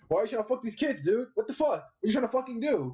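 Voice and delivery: high, outraged kid voice, lightly hammed-up; mock middle schooler. Grown YouTuber mocking a predator like an outraged middle schooler. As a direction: play a middle schooler scolding a grown man. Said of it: "like a middle schooler".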